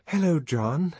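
high, lilting hello with a smile; smiling greeting. A narrator's reading. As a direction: greet him lightly through a smile. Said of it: "she said, smiling".

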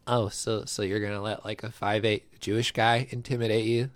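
lightly put-on pundit impression; Ben Shapiro. Podcast friend mocks a pundit asking who's intimidated, light impression. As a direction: do a slight imitation of a debating pundit. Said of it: "that's my Ben impression".

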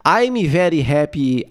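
slow "I'm very happy" with added Brazilian vowels; Brazilian-accented English. Shown as a demonstration. Showing it means the same, slow Brazilian accent. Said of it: "É a mesma coisa".

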